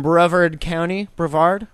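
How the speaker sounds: "Brevard" tried two ways, second questioning; trying out pronunciations. Shown as a demonstration. Newsreader unsure of a county name, trying out pronunciations. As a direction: sound out "Brevard", unsure of the stress. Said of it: "aren't gonna pronounce that right".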